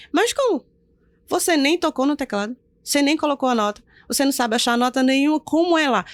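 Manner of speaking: imitazione incredula, acuta e incalzante; incredulo. Retold or imitated. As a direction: protesta veloce e più acuta, come chi non ci crede. Acts out the bassist's disbelief.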